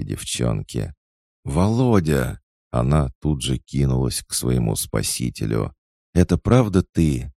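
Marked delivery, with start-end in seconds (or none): 1.4-2.4 excited call. Acted. Girl calls out to her rescuer. 6.1-7.3 high, loud amazed question; disbelieving joy. Acted. Girl can't believe she's rescued.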